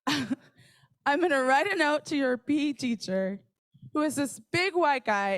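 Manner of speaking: lightly Jamaican mom with a plan; a hint of a Jamaican mother deciding things. Mom planning to write a note to the gym teacher, lightly Jamaican. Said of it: "she was like".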